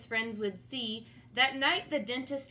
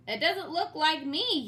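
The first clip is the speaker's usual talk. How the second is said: roared; 5 semitones higher, 4 dB louder than usual. Acted. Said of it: "he roared".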